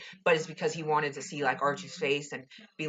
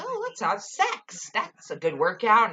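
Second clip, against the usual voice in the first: mock Veronica; 4 semitones higher than usual. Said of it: "she decides".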